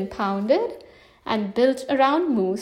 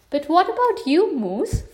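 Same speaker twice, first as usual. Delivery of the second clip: glaring question; 4 semitones higher than usual. Acted. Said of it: "Fox asked with a glare".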